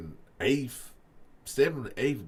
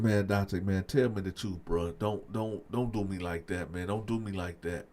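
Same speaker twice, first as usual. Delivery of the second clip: softer, lower begging; desperate pleading; 6 semitones lower, 6 dB quieter than usual. Retold or imitated. Friend begging Dante not to lie, soft lower plea. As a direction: plead quietly, almost breaking.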